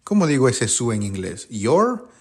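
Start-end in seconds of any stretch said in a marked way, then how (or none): 1.5-2.1 testing wrong guess. Shown as a demonstration. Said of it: "No, ¿cierto?".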